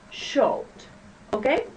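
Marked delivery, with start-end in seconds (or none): 0.1-0.6 "showed" said with almost no voice; "showed", nearly unvoiced at the end; whispered model word. Shown as a demonstration. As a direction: breathe out "showed". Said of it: "one more time".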